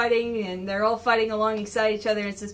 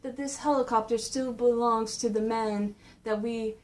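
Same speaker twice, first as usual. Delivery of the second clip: lightly voiced polite villain, sinking softer; menacing stranger; 4 dB quieter than usual. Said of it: "this man starts talking".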